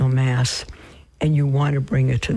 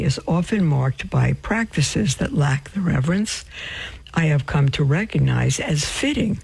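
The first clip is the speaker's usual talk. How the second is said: talking through hiccups; reading while hiccuping now and then. Real, not acted. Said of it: "I do have hiccups now".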